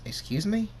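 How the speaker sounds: high, shocked excuse me; offended disbelief; indignant. Acted. Rainbow Dash indignant at kiss.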